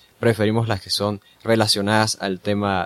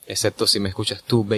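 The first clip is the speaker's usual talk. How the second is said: sensual seductive voice; 3 semitones lower than usual. Pretend. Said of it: "leer las preguntas con voz sensual y seductora".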